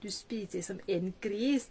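slow, deliberate example sentence; teacher reading a model phrase slowly. Shown as a demonstration. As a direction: lay out each word slowly for learners. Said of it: "ก็คือใช้ประโยคคำ".

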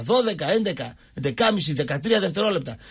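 ordinary delivery

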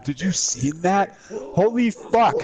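slow, mocking imitation of friend. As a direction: mimic his broken English. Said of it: "Every fucking time".

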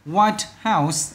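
"White House" slowly, stress on WHITE; first-word stress. Shown as a demonstration. Teacher showing compound stress to pupils, first-word stress. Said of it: "âm đầu".

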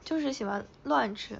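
raspy, hoarse throat. Real, not acted. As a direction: talk with a husky, hoarse throat. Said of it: "我这嗓子都哑了".

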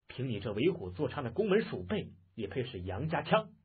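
understated scornful dismissal; cold sneer. Acted. Taoist mocking the spearman, a slight cold sneer. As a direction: belittle the challenger. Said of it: "那道人微微冷笑".

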